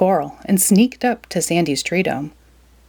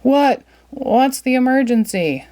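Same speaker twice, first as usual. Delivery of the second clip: panting Squidward; 6 semitones higher than usual. Acted.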